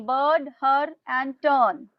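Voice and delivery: Bird, her and turn read out slowly, word by word; slow dictation. Shown as a demonstration. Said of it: "In one message". (धीरे-धीरे बोलकर लिखवाना)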